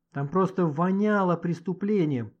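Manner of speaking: slow, drawn-out note of triumph; slightly triumphant. Acted. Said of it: "с некоторым торжеством в голосе".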